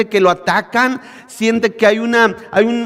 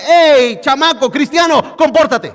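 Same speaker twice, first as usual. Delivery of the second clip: God scolding; 4 semitones higher than usual. Retold or imitated. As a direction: call the child to order like a father. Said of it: "sino diciéndote". (Dios regañando con firmeza, en voz alta)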